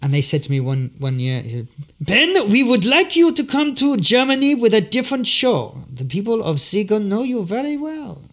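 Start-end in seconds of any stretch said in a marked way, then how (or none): 2.0-8.2 quoting the German organiser in a hammed-up Irish accent. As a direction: put on a lilting Irish brogue for the German organiser. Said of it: "In a, in an Irish accent".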